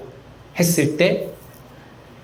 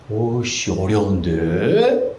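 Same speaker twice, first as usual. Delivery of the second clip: stumped student; 5 semitones lower, much slower than usual. Retold or imitated. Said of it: "이래요".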